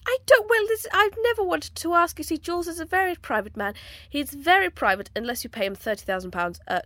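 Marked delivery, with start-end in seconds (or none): 0.0-2.2 whispering. Pretend. Whispered confidential aside.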